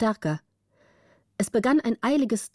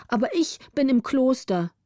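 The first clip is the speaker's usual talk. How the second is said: put-on sleepy little girl; 5 semitones higher than usual. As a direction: answer like a small girl just woken. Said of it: "erwiderte die andere".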